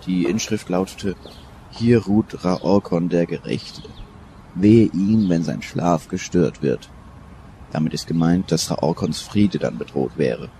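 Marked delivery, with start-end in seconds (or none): 1.7-6.9 langsam und gewichtig vorlesen; feierliches Zitat. Acted. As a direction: wie eine Grabinschrift verkünden. Zitiert feierlich Inschrift. (Professor zitiert die Inschrift: langsam, feierlich)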